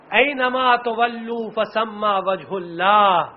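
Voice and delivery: slow, measured Quranic recitation. Acted. Preacher voicing the martyr's recitation, slowly intoned. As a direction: draw out the verse reverently.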